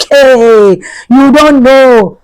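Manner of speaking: mock the friends' drawn-out taunt; slow, stretched-out teasing jeer. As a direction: imitate schoolmates needling someone. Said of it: "that's how they were already teasing".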